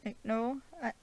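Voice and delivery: high-pitched, hesitant character voice; Stephen. Acted. Vlogger as Stephen answering Arthur, high-pitched protesting voice. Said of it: "Stephen's like".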